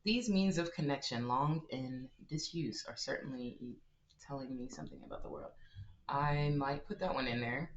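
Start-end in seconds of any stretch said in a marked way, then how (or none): 0.0-5.5 reading game text. Acted. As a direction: read the lore line with gravity. Reads game text aloud.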